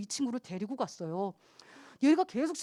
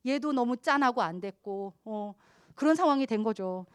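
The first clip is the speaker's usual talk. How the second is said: ordinary delivery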